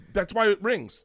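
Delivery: high-pitched, exasperated comeback; exasperated retort. Retold or imitated. Husband answering wife about the phone, exasperated. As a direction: explain it with comic exasperation.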